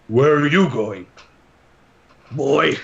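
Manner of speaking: lightly voiced character calling after someone; Lucian. Companion questions Shiro walking off, lightly put-on character voice. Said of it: "Lucian goes".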